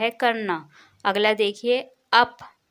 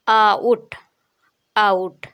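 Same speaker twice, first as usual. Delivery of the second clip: clear, loud model word out; 8 dB louder, much slower than usual. Shown as a demonstration. Teacher to pupils, loud model of आउट. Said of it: "उसको आप पढ़ेंगे आउट".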